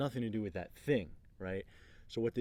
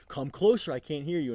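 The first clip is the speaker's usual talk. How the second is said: loud, raised-pitch summons; unfazed challenge; 5 semitones higher, 9 dB louder than usual. Retold or imitated. Leader to ranting man, loud unfazed challenge. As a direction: imitate a leader urging him nearer, louder. Larry keeps calling ranter closer.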